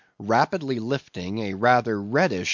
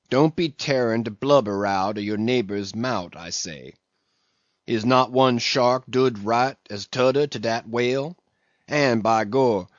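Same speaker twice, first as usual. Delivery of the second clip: mumbled dialect sermon to the sharks; a sullen old ship's cook preaching to sharks; mumbling old cook. Acted. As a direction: grumble it out, half to himself. Fleece's sermon voice.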